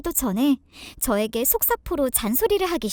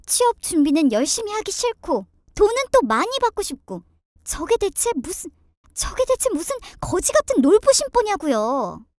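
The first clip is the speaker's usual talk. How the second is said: higher-pitched indignant daughter-in-law; exasperated venting; 5 semitones higher than usual. Acted. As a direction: vent to listeners in disbelief. Daughter-in-law vents to listeners. (기막혀 따지는 며느리)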